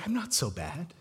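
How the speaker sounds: put-on soft, kind reassurance to a scared boy; gentle principal. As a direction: say it softly, like calming a frightened child. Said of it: "who talked to me with grace".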